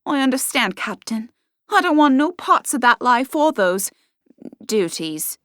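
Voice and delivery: eager young servant girl, lightly voiced.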